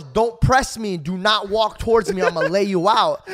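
loud warning; threatening. Retold or imitated. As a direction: warn him off hard. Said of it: "the guy goes".

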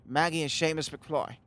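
badly faked Irish accent; half-hearted mock Irish accent; awful Irish accent. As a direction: put on a clumsy Irish lilt. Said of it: "That's an awful Irish accent".

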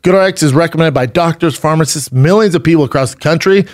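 smooth, upbeat sponsor read. Real, not acted. Host selling mattresses to listeners, ad read. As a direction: pitch it to listeners with steady drive.

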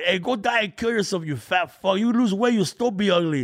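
high mock heckler jeer; drunk heckler shouting. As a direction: sneer it like a nasty heckler. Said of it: "From the audience".

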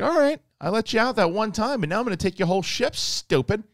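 high, loud, fast gloating monster voice; mock Sarlacc taunt. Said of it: "And it's like".

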